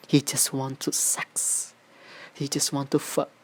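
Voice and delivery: slowed, deliberate repeated quote; repeating the quote, slowed down; slow emphatic reading. Shown as a demonstration. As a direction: lean on it slowly in disgust. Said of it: "captionnya tuh predator sex".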